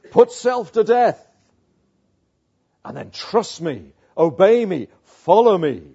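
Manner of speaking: loud, punched preaching with weighty pauses; forceful pulpit delivery; emphatic preaching. Real, not acted. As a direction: drive each command home to the congregation.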